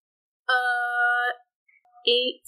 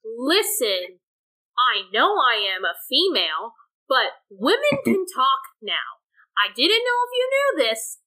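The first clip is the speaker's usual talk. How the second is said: booming voice; 6 semitones higher than usual. Acted. Mallory's illusion booming at the pirates. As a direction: boom it out like a magic illusion. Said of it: "So in the booming voice".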